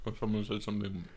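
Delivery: talking around a mouthful of ice; mumbled through ice in the mouth. Real, not acted. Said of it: "Sorry, I have ice in my mouth".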